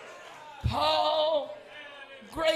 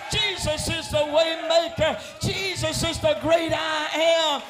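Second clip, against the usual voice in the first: preaching at full force. Acted. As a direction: preach it out to the congregation.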